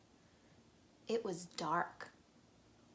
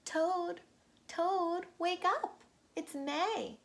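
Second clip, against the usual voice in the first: high, louder excited wake-up call; 9 semitones higher, 5 dB louder, slower than usual. Acted. Frog waking sleeping Toad, high loud calling. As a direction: shout him awake with glee.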